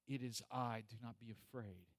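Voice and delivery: understated calm authority, softening at the end; quietly assured, falling away softly; Jesus. Acted. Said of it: "the authority in his voice".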